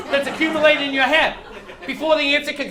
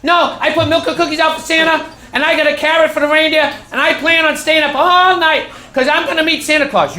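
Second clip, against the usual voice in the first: put-on insistent kid; 3 semitones higher, 5 dB louder than usual.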